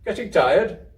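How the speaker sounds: high, loud kindly question; storeman asking. Acted. Storeman asking sleepy Kezia if she is tired, high and kind. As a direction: check on the child gently. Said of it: "the storeman".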